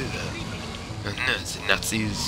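light frightened bystander voice; mock panicked civilian. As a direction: play a panicky townsperson, lightly.

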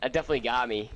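shaky after a jump scare; shaking. Real, not acted. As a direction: still trembling from the fright. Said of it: "I'm, I'm shaking".

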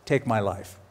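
weary. Retold or imitated. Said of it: "he goes".

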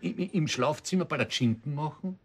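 words breaking into a chuckle; laughing while asking. Real, not acted. Husband teasing his wife, laughing as he speaks. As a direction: tease her through laughter.

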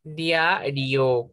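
"Diario" as two beats, dia-rio; split into syllables. Shown as a demonstration. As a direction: keep I and O together in "Diario". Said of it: "tampoco la puedo separar".

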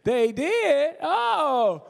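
high, loud comic astonishment; mock surprise. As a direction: jump up in pitch as if amazed by the news. Retelling his reaction to a client.

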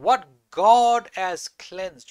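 the Lord speaking, slow and weighty; slow solemn divine voice. Acted. God's voice to Peter, slow and solemn. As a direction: lay each word down slowly. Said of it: "a voice spoke to him".

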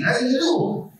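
high, deliberately poor Mickey imitation; a mock-bad falsetto mouse greeting. Shown as a demonstration. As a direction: squeak it like the worst Mickey ever. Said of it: "I got the worst Mickey".

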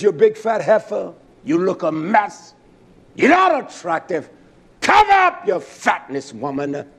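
retold blunt telling-off of a sister; mock-harsh brotherly insult; crude scolding. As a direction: scold her in punchy bursts, rising on the order. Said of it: "I talk to her like that".

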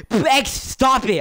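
drawn-out high yell of the name; slow, high yell to stop her; shouted stop. Real, not acted. Yelling at fighting teammates.

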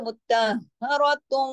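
slow मुत्तहरतुम with the ending merged into a nasal hum; joined reading. Shown as a demonstration. Teacher shows joining onward, मुत्तहरतुम with nasal merged ending. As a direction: link through मुत्तहरतुम and hum the close. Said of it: "ऐसे हो जाएगा".

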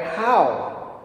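"how?" set apart and stressed, falling. Shown as a demonstration. A teacher showing students a new emphasis, stress on how. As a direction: lean hard on "how?" alone. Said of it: "emphasize different things".

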